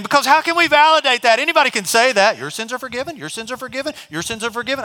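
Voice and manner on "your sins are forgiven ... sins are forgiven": soft, offhand, high and breezy; casual, easy saying. Shown as a demonstration. Preacher showing anyone can say it, soft and offhand. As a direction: toss it off like it costs nothing. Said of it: "I mean, I can say that".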